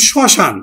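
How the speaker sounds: শ্মশান said as "shoshan", the m silent; শ্মশান pronounced "shoshan" with a light nasal touch; spoken as shoshan. Shown as a demonstration. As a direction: say শ্মশান with no m sound, "shɔshan". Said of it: "উচ্চারণটা করি স".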